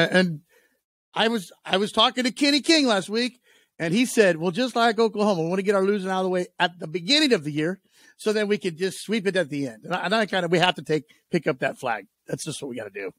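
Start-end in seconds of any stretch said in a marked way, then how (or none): 4.4-9.9 lightly drawled Southern accent, mildly put on; thick Southern accent. Co-host retells Kenny King's words, in a light Southern accent. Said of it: "a Kenny King impression with a pretty thick Southern accent".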